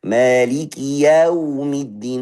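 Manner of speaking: slow, stretched "yau" in "yaumiddin"; drawn-out, overdone recital of "yau"; exaggerated, overlong vowel. Shown as a demonstration. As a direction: overdo the a of "yaumiddin" until it grows an extra sound. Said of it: "dia berlebihan sampai ada tawallud".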